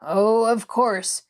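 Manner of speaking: slow, sardonic cut-in; sharp interruption. Acted. Patient stopping the girl's cheerful talk, sharp. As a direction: cut in with sour agreement. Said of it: "interrupted the man sharply".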